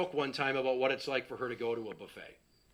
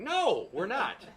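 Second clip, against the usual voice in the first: laughing denial; 7 semitones higher, slower than usual. Retold or imitated.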